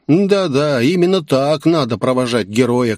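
usual speaking voice

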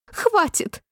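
very high squeal of "enough"; screeching queen; shriek. A narrator's reading. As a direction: squeal it at the bowing cards. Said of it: "взвизгнула королева".

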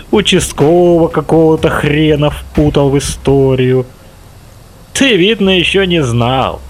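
sneering menace; mocking villain. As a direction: taunt the boy with scorn. Villain mocks the boy.

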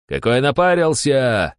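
plain reading voice

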